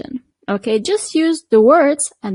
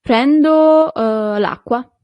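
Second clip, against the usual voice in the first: customer ordering; 5 dB louder, slower than usual. Shown as a demonstration. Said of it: "for example".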